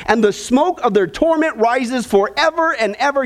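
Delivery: lifted, measured Bible reading to the congregation; scripture reading. Acted. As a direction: read the verses out like a preacher at the pulpit. Reads scripture aloud.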